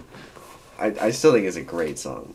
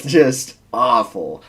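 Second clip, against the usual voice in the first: laughing; 6 dB louder, slower than usual. Real, not acted. Laughing at the guitar tone.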